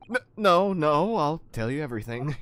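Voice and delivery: high, loud, stammered surrender; panicked pleading. Acted. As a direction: give in hastily under a threat. Threatened character begs to confess.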